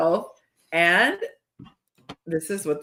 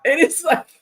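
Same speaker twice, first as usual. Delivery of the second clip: higher, louder, slow emphatic rise; worked up; 6 semitones higher, 5 dB louder, slower than usual. Real, not acted. Host getting triggered again, worked up. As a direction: build up heated.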